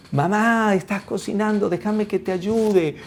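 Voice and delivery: lightly voiced pleading child; eager child. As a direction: call to mum, begging to help. Acted child asking mother to help.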